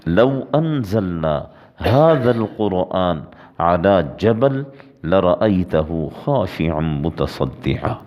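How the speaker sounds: slow, measured Arabic recitation; Quran recitation. Real, not acted. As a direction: intone the verse slowly and reverently. Preacher recites Quran verse.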